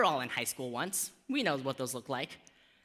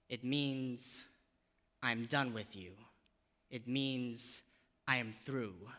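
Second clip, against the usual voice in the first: spoken-word poem. Acted. Poet reciting her own piece about language to the audience. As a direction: perform it like a poem on stage.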